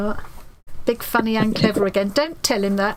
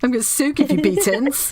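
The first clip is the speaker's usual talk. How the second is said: mock Plymouth accent; 4 semitones higher than usual. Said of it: "that's more like a Plymouth accent".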